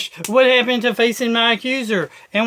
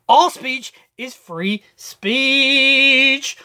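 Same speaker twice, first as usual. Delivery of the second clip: slow drawn-out slogan; 2 semitones higher, much slower than usual. Shown as a demonstration. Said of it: "same slogan, drawn-out take".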